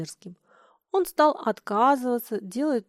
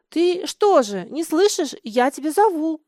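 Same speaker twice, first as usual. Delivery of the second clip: put-on higher and louder, a boy yelling; loud call; 5 semitones higher, 7 dB louder than usual. Лёня finds Миша in his room and yells at him. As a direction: shout it, demanding an answer.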